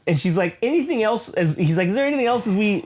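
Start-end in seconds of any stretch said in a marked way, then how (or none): 0.6-1.3 high, lightly voiced woman; a hint of a brisk woman asking; mock Elektra. Elektra checking with Daredevil, lightly voiced high. 1.9-2.8 high, lightly mocking; a light hint of a mock voice; mock question. Daredevil asking Elektra before the break-in, high mock voice.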